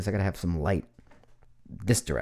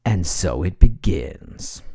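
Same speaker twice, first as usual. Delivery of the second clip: dramatic; 6 semitones lower, 5 dB louder, slower than usual. Pretend. Dramatic closing line.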